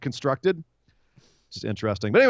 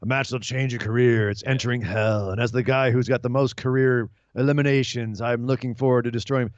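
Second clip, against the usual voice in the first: imitating Kane; 3 semitones lower than usual. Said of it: "starts cutting a promo".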